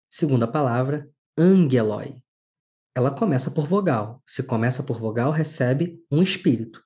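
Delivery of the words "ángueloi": "angeloi" stressed on its first syllable, then falling; stress on accented syllable. Shown as a demonstration. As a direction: hit AN in "angeloi", hard g after it. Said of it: "tem um acento agudo".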